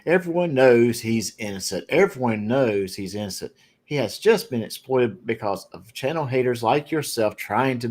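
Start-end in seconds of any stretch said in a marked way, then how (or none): 0.0-3.5 sarcastic. Retold or imitated. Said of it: "I'm reading a little bit of sarcasm there".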